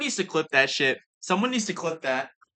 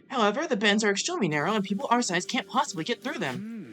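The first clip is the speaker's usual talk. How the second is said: mouth full; 2 semitones higher than usual. Acted. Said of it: "I'm gonna pretend every character is Ema while I'm eating".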